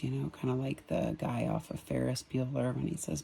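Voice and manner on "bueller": quiet, understated monotone mimicry; monotone impression. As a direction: imitate a droning roll call. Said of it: "in a very monotone voice".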